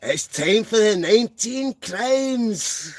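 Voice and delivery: grand announcer. Pretend. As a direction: boom it out as a big reveal. Catchphrase announcing the wine.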